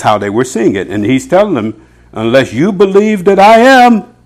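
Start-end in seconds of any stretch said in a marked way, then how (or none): 2.1-4.1 stern warning. Acted. Preacher voicing Jesus's warning.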